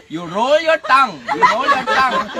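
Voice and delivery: loud, emphatic comic teacher; forceful, half-laughing instruction; insistent mock command. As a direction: drill it into the pupil loudly.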